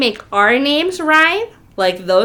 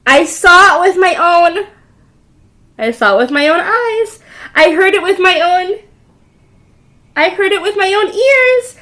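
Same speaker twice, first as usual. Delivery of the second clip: frantic chick; 6 semitones higher, 6 dB louder than usual. Acted. Chicken Little's frantic report.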